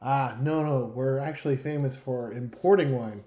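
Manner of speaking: put-on old Hollywood creepy-guy accent; weird put-on accent. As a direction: speak in an odd, old-movie foreign accent. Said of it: "I don't know where that accent I just did came from".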